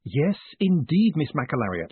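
stretched, strained-polite "yes", falling away; desperate. Acted. Moist stuck under a wailing woman, mildly desperate. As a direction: humour them with a touch of desperation. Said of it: "he said desperately".

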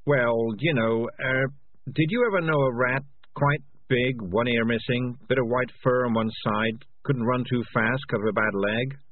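hesitant cat character; uneasy cat. Acted. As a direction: broach it nervously as the cat. Voices Morris uneasily asking.

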